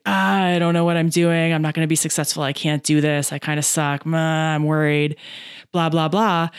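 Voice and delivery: droning, mopey inner voice; mock self-doubt. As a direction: drone through the doubts on one level note.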